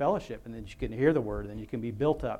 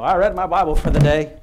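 dismissive quick reader; 4 semitones higher, 12 dB louder than usual. Retold or imitated. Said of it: "Don't just read through it, go".

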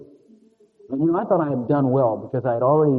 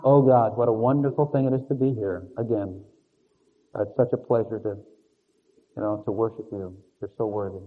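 phony pious prayer; 4 semitones lower than usual. Retold or imitated. Preacher mocking phony prayer, falsely sweet. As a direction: fake a gushing prayer to God. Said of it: "No, that is phony".

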